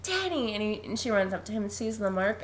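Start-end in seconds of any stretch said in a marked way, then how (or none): 0.0-0.5 high-pitched mother calling her son; Wendy. Retold or imitated. Podcaster acts out mother calling after son, high-pitched. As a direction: imitate a mother's high call. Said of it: "And then Wendy's like".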